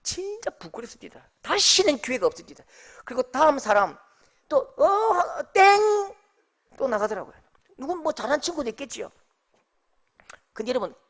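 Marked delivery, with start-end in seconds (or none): 4.5-6.2 mock contest bell. Next contestant fails, bell.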